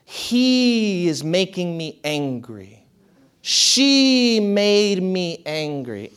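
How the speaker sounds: slow, drawn-out mock complaint pointing the finger at others; blaming whine. Mocking people who blame others for their anger, slow and drawn out. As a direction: drag it out like a sulky accusation. Quoting the bad habit of blaming.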